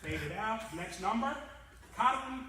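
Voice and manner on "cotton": high and loud on the title; announcing song title. Retold or imitated. Speaker announcing the next song title to guests. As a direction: call the song name out brightly.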